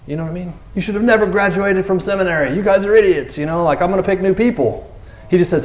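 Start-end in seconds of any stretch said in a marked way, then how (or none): 0.7-4.9 high-pitched exasperated rant; hammed-up telling-off, not in earnest; mock scolding. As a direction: act out a teacher giving up on the class. Acting out scolding Jesus didn't give.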